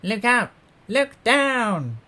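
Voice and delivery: very high, loud alarm call; urgent shouted alert; yelled warning. A narrator's reading. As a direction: yell a danger warning across the river. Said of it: "who yelled".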